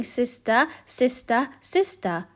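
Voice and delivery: calling sister into the cave; duck calling. A narrator's reading. Duck calling her sister in the cave. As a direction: call it into the dark. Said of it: "She quacked".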